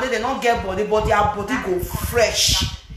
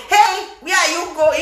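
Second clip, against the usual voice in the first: slow, raised mock call; mock husband; 5 semitones higher than usual. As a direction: imitate the husband calling out. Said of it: "the husband come say".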